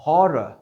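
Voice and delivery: हॉरर said hɔrə, middle R sounded; horror with linking R. Shown as a demonstration. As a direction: say हॉरर with R between vowels. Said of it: "लिहाजा आर पढ़ा गया".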